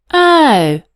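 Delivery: a loud understanding huff. A narrator's reading. Boy huffing as he understands the pony. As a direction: huff as it dawns on him. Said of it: "huffed an understanding Alfie".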